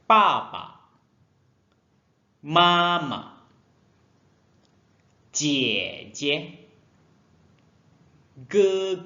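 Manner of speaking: each word said loud and clear with long pauses; drill for repetition. Shown as a demonstration. Teacher reads words aloud for pupils to repeat. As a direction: model each syllable loudly for pupils to copy. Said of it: "Ikut Lao She".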